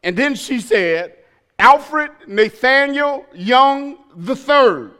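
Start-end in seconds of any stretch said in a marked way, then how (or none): 1.6-4.9 stern full name. Retold or imitated. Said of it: "when she called my whole name".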